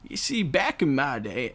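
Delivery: a hint of a rambling old man. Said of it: "I talk in an old man voice".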